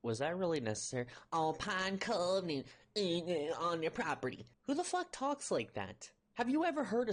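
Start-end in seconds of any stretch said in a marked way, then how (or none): 1.3-4.5 slow, garbled mock Southern accent; drawn-out imitation of a fake Southern accent. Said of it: "do that accent".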